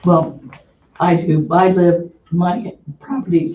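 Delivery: hoarse, voice giving out; rough, strained hoarse voice; losing voice. Real, not acted. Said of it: "sorry, I'm losing my voice".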